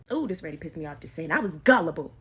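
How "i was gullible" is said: self-scolding. Real, not acted. Self-reproach, repeated emphatically.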